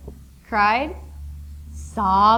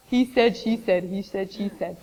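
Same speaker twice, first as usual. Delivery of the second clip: boring repetition; 2 semitones lower, 4 dB quieter than usual. Retold or imitated. Teacher mocking repetitive student dialogue, droning. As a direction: reel it off like a tedious list.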